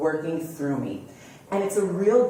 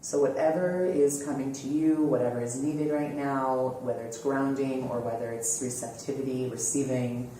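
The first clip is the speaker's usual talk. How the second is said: slightly lowered, easing into a calm guiding voice; guided meditation; 3 semitones lower, 3 dB quieter than usual. Acted. Host settling listeners into posture and relaxing, calm guided meditation. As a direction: gently lead listeners into relaxation.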